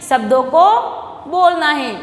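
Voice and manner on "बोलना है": usual speaking voice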